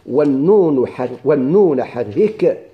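very slow chanted half-line; slow, drawn recitation of a verse; reciting the verse. Shown as a demonstration. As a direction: intone it slowly like a poem. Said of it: "شوف".

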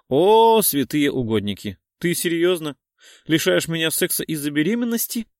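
high loud cry, then fast protest; outraged at being denied; indignant outburst. Acted. Lena protests that Artyom refuses her sex, indignant and loud. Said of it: "возмутилась она".

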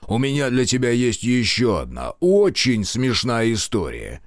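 мстительный генерал, с издёвкой; злорадный старый генерал. Acted. General Kotelnikov voice. (злорадный генерал)

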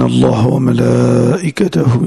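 slow, drawn-out Arabic recitation; solemn recitation. Acted. Teacher opening the lesson with a verse of blessing, solemn recitation. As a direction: recite slowly, stretching the long vowels.

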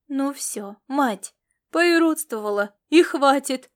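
husband shouting his wife down, half stern; gruff shout at wife. Acted. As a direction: cut her off sharply, enough now. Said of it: "прикрикнул Корвин на жену".

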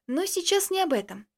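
plain reading voice

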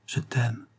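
tender. Acted. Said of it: "lui dire enfin".

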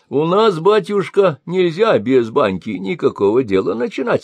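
put-on high, cackly-toned old crone, peering and suspicious; old woman voice. A narrator's reading. Old woman questions the sorcerer, high suspicious crone voice. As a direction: play the half-blind old woman sizing him up.

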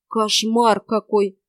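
slow, drawn-out mock indignation; feigned outrage. Yaga plays shocked for the boy, slow feigned outrage. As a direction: pretend to be shocked, stretching it out. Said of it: "изображая возмущение".

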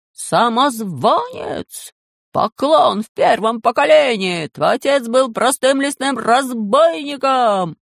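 nobles jeering at the mole; angry shouting. Acted. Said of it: "кричали".

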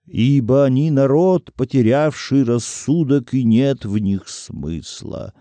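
solemn recited pronouncement; one reader standing in for a chanting chorus; echoing chorus. A narrator's reading. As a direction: intone it firmly, slowing at the end. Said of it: "вторил говорящему хор голосов".

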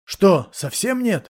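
stunned disbelief; astonished. A narrator's reading. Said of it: "поразился Джек". (медленно, поражённо, выше)

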